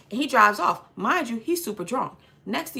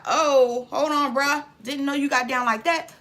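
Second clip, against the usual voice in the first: raised pitch, acted alarm; mock taken aback; 3 semitones higher, 3 dB louder than usual. Retold wife to the guy flipping out, mock taken aback. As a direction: imitate someone backing off a hothead in surprise. Wife startled by man's outburst.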